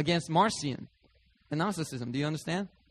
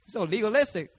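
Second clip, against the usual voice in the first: exasperated complaint; 6 semitones higher than usual. Retold or imitated. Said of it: "I'd be like".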